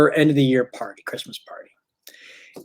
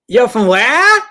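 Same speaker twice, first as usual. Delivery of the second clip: surprised; 9 semitones higher, 7 dB louder, slower than usual. Retold or imitated. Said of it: "she goes".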